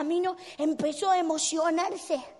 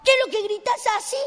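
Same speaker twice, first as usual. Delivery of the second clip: loud, fast, higher demand; exasperated scolding; 5 semitones higher, 5 dB louder, faster than usual. Acted. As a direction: demand to know why he's yelling. Crowd scolds the shouter. (reproche rápido y fuerte)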